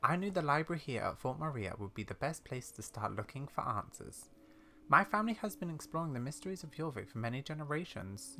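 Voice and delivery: lightly voiced old lady recounting family lore; measured, soft storytelling as an elderly explorer; old lady character.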